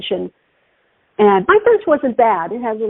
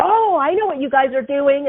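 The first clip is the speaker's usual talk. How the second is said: higher, knowing call-out; retold confrontation; 5 semitones higher than usual. Woman to the thieves at her bag, retold confrontation. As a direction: let them know they are caught, pitched up.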